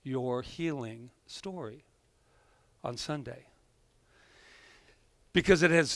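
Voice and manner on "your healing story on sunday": very slow, fading "Can I use your healing story on Sunday?"; slowly, reading the text aloud; slow text readout. Retold or imitated. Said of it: "I said".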